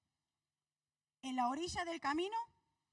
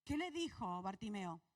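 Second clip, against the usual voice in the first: ordinary talk, nothing marked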